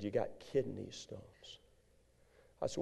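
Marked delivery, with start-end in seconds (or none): 0.0-1.6 doctor's verdict. Retold or imitated. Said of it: "He said".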